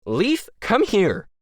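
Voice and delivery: high, slow, annoyed shout; annoyed call. A narrator's reading. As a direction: call out impatiently. Calling Leaf, annoyed.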